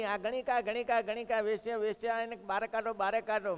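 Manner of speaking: jeering the woman out as an angry crowd, half-acted. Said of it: "લોકોએ રાડો પાડી".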